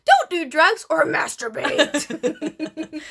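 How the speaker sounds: high, loud peppy preacher greeting; bright, bouncy church youth leader; upbeat youth pastor. Retold or imitated. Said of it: "A youth pastor has so much pep in their voice".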